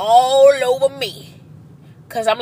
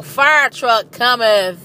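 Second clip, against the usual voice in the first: mock proclamation; 6 dB louder, slower than usual. Siren truck approaching in traffic.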